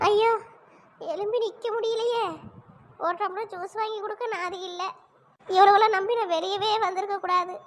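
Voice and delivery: mild self-pitying moan; play-acted wailing. Woman on the ground faking weakness, plaintive moaning. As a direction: lament as if too weak to stand. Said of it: "நாலு முடி என்ன நடி நடிக்கி?".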